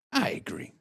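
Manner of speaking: a whispered "I agree". Real, not acted. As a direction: say it under your breath. Repeats agreement under breath.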